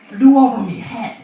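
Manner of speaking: pirate. Acted. Pirate describing an albatross overhead, loud pirate voice. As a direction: call it out as a pirate. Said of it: "He's like".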